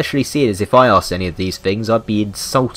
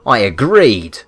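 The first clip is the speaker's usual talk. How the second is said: eager agreement; 6 dB louder than usual. Acted. Eager to accept the lopsided deal.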